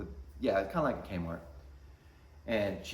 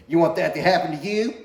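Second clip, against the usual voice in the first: put-on louder, higher warning to a kid; stern warning; 7 semitones higher, 8 dB louder than usual. Parent looking down at their kid, stern warning. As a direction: warn the kid sharply.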